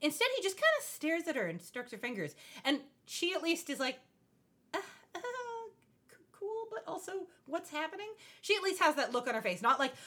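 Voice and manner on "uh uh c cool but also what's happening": high, soft, faltering imitation of a confused girl; hammed-up nervous stammer; mock flustered girl. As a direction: play her baffled and unsure, voice pitched up. Imitating awkward little sister at party.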